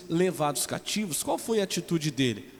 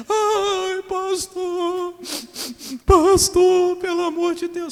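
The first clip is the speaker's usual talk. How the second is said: much higher mock wail, pleading; hammed-up desperate sister begging the pastor; imitating crying woman; 13 semitones higher, 8 dB louder, much slower than usual. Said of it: "igual Davi, até não ter mais força". (irmã desesperada implorando ao pastor, choro imitado bem agudo)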